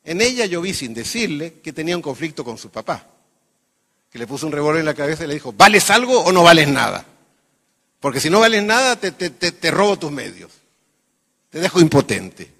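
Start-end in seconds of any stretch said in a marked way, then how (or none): 5.5-12.5 louder, a touch of a menacing father; mock threat. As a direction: bark it like a threatening dad. Father voiced threatening with revolver. (amenaza del padre, apenas actuada)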